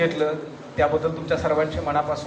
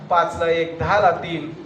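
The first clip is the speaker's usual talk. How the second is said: put-on pitiful old vendor's call; 2 semitones lower, slower than usual. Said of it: "केविलवाण्या स्वरात ... ओरडत होता".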